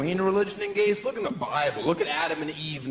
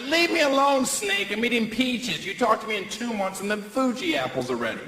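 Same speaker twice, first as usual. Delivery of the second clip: annoyed retort; 6 semitones higher than usual. Acted. Comic shooing off a talking snake, high and whiny. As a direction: tell the snake off in a shrill whine. Voicing himself telling snake off.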